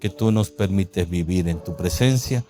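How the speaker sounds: pastor praying aloud to open the service; prayer. Acted. Opening prayer over music.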